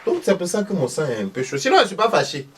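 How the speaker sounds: voix aiguë de vieille villageoise, criée fort; vieille maman fâchée. Acted. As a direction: une mère ivoirienne qui nie être fâchée en criant. Thérèse sur le sang baoulé. (Madame Thérèse, vieille dame aiguë qui proteste)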